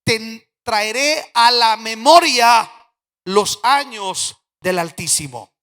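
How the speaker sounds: cita bíblica declamada. Retold or imitated. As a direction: declaim the verse slowly, phrase by phrase. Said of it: "busque esta frase". (cita bíblica lenta y enfática)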